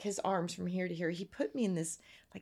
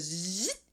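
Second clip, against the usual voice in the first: buzzing zzz. Shown as a demonstration. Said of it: "It sounds like that".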